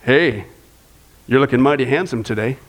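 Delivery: a low, affectionate compliment. Shown as a demonstration. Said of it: "try this, ladies".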